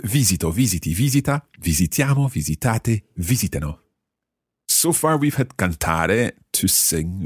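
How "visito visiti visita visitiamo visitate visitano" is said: VIsito, VIsiti, VIsita, visiTIAmo, visiTAte, VIsitano in rhythm; modelled verb stress. Shown as a demonstration. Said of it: "Going through the whole verb".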